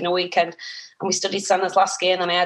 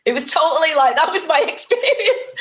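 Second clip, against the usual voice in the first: laughs mid-line, voice jumping much higher; laughing; 8 semitones higher than usual. Real, not acted. Guest to host, laughing about her tiny first part. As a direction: break into a real laugh on it.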